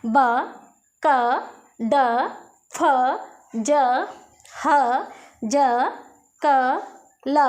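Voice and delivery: ब, क, ड, फ each said as a bare consonant sound with pauses; letter sounds recited one at a time; phonics revision. Shown as a demonstration. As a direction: run through ब, क, ड as a class drill. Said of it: "एक बार फिर से revision कर लेते हैं".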